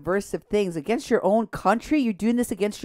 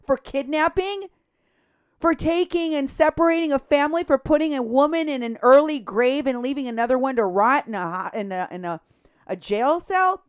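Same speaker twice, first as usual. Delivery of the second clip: indignant, incredulous questions, pitched up; angry; 4 semitones higher than usual. Real, not acted. Host berating the paramedic over the separated family, angry. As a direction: fire off outraged accusations. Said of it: "I'm angry that these people".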